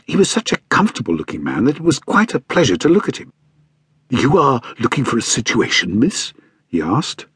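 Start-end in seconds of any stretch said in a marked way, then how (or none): 4.1-6.3 a hint of a genial fat gentleman asking; friendly, slightly put-on gentleman; lightly voiced stout man. Stout man questions governess.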